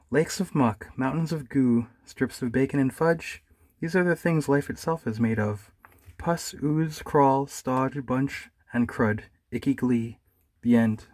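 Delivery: slow, hammed-up recital; mock poem recital. Bear reciting a new poem to Droopy, slow and hammed-up.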